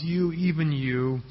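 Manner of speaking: slow, hushed lament over Jerusalem. Shown as a demonstration. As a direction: let "You, even you." sag with a slow mournful ache. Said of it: "He's crying out over the city".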